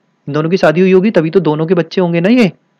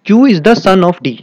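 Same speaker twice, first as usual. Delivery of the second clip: slow, a little louder, each word spelled out; teacher reading a puzzle clue slowly; slow emphatic reading; 3 semitones higher, 4 dB louder, much slower than usual. Shown as a demonstration. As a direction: read the clue out slowly for the class. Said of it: "आगे देखते हैं".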